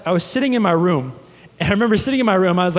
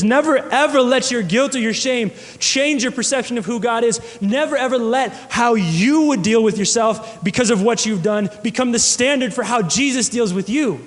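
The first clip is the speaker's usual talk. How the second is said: preaching exhortation; 4 semitones higher than usual. Real, not acted.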